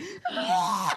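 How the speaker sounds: high mock screaming gasp; imitated child's scream. Mother imitating her screaming daughter, high mock scream. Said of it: "this whole time screaming".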